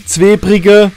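Zwebrige said the Palatinate dialect way, short and local; Palatinate dialect name. Shown as a demonstration. Explaining local place names, dialect pronunciation of Zwebrige. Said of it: "sagt man dort".

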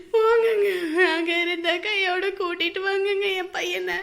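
crying plea to go now; tearful urging. Acted. Mother urges her husband to bring the son home, tearful. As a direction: push him out the door through tears.

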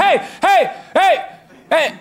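high-pitched repeated heys, calling out; comic high-pitched protest; mock yelling. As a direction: holler to break up a fight. Breaking up a cousin's beating.

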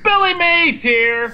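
high, drawn-out pitchman yell; Billy Mays. Acted. Friend shows how it's done, yelling pitchman. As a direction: holler the opener slowly like a TV salesman. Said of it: "He yells, man".

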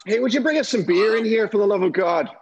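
loud pleading call for beer. Pretend. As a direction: shout it across the room, begging. Drunkenly calling for beer.

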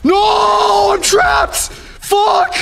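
panicked shout. Real, not acted. Trapped by monster in game.

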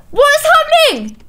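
high, loud shocked question; a gamer scandalised by her Sims. Real, not acted. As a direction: squeal out the question. Gasps at Sims scene.

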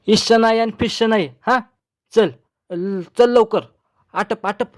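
hurrying. A narrator's reading. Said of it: "चुटक्या वाजवून जावईबुवा गडबड करू लागले".

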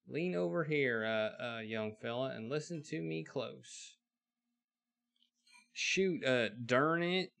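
loud, slow folksy wonder, then leaning in; a hammed-up frontier smith who can't believe it; old blacksmith amazed. Astonished blacksmith calls the young fella close.

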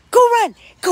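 high, loud, eager cheer to the dog; excited shout. Real, not acted. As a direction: urge the puppy to run, squealing. Chasing the puppy, playing.

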